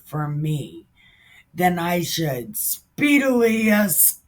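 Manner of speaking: measured, formal Bible reading; steady reading of the verses; scripture reading. Acted. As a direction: read the verses steadily and solemnly. Reads scripture aloud.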